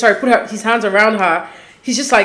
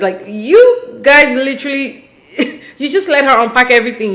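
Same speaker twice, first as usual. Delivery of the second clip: laughing in disbelief; 3 semitones higher than usual. Real, not acted. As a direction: laugh at how absurd it is.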